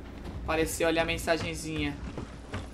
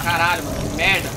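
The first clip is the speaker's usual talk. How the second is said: panicking gamer; 8 dB louder than usual. Real, not acted. Under attack.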